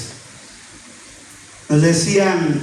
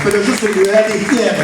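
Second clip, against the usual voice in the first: quoting the politician; 3 semitones higher, faster than usual. Retold or imitated. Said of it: "decía".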